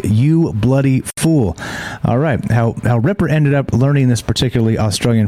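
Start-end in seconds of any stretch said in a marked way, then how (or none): 0.0-1.6 imitating the duck. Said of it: "a phrase that sounds a lot like".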